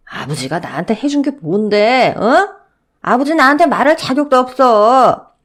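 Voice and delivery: high, loud outburst; resentful shouting son. Acted. Father yelling back at grandfather, resentful and loud. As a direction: spit out years of resentment.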